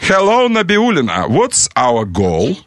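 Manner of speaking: slow, clear command to a phone; talking to phone assistant. Real, not acted. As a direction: speak slowly so the phone understands. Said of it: "Видишь, я спросил".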